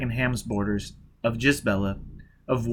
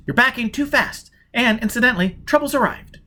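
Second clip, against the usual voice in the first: cold and competent; 11 semitones higher, 4 dB louder than usual. Acted. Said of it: "cold and competent".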